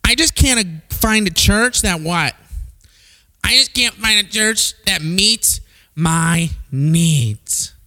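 slow complaining churchgoer voice; whiny churchgoer. Retold or imitated. Preacher mimics a picky churchgoer, slow and whiny. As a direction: mope about finding no church. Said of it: "I've heard this many".

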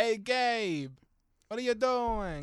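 loud, high mock New Jersey call; New Jersey accent. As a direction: holler like a caricature New Jerseyan. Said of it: "like you were in New Jersey".

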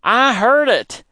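high, loud and slow with excitement; boy thrilled to hear the owl; excited. A narrator's reading. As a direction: blurt it out thrilled. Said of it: "I said excitedly".

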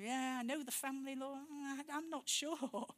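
hesitant, dragging out the end; acted-out reluctance, stretched and soft-edged; reluctant doubt. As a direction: voice an unsure thought, slowing down. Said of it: "and I'm thinking".

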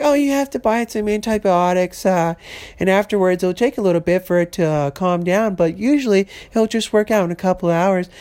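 lightly voiced soothing store clerk; breezy fake reassurance, a bit quick; joking version of the PetSmart clerk's advice; mock clerk answer. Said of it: "I'm just fucking fucking with you".

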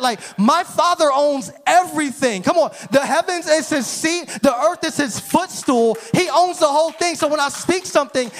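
emphatic sermon delivery, punching the key words; impassioned preaching. Real, not acted. Preacher telling congregation their Father owns everything, impassioned preaching.

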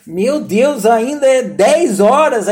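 slow, weary groan at the clock; exasperated sigh. Retold or imitated. To himself, stuck at a dull family Christmas: weary groan. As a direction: drag it out, bored to death.

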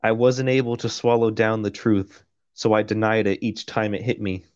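measured, even audiobook read; steady first-person narration; story narration. A narrator's reading. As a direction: read it out like a novel. Reads the novel aloud.

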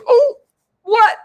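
high squeal of fake disbelief; mock shock. Telling the viewers, hammed-up shocked squeal. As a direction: gasp it out like you can't believe it.

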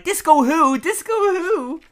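very high, drawn-out frantic cry; frantic mock yell. Marge shaking passed-out Selma for an answer, frantic mock yell.

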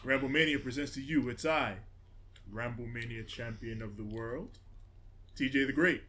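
ringmaster announcing; booming ring announcer intro. Pretend.

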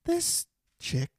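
put-on Boston accent climbing high; halting, high-pitched Boston townie raving. Cohost raving about their guest in a Boston accent. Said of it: "I just love that accent".

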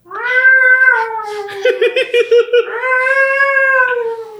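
long, very high siren wail; vocal siren, held and piercingly high; imitated police siren. Player voicing the police arriving, long siren wail. What does the police sound like.

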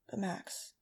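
soft, barely audible; whispered. Acted. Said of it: "he whispered, barely audible".

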